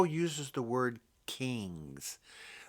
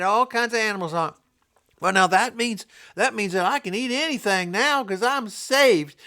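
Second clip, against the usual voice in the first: mock careless Christian; 6 semitones higher, 5 dB louder than usual.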